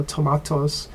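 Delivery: tomatoes with an AH sound, to-MAH-toes; Korean-style tomatoes. Shown as a demonstration. Teacher showing Korean students their own tomatoes, to-MAH-toes. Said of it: "Like you say here in Korea".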